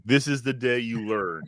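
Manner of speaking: slow, ominous parent voice; creepy slow voice. Pretend. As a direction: draw it out like a threat. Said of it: "creepy, slow voice like that".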